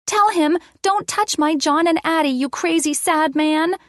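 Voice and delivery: put-on high-pitched child's voice; little girl. A narrator's reading. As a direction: dictate lines in a game of pretend. Addie feeds lines in play.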